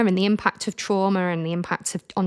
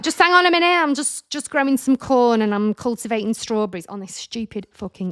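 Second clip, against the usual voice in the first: exasperated retort; 4 semitones higher than usual. Retold or imitated. Retorting to husband, annoyed.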